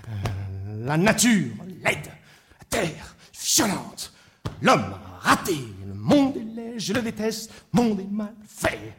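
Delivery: halting list of grievances, then droning refrain; chanted, world-weary complaint; grumbling. Acted. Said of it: "un homme qui grognait comme ça".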